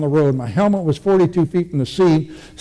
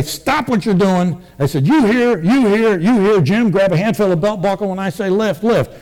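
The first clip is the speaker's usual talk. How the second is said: loud barked orders, retold; military command voice; 4 semitones higher than usual. Soldier on the ground ordering the ambulance crew around, loud commands. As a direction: take charge like a drill sergeant. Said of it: "in my best military manner, which was really loud and dirty".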